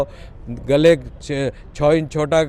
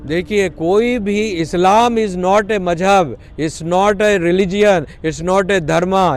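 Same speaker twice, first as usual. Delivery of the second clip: drawn out very slowly, each phrase weighed; deliberate slow insistence; slow emphatic declaration; 2 semitones higher, much slower than usual. Real, not acted. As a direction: spell it out slowly, hammering each denial. Emphatic point about Islam.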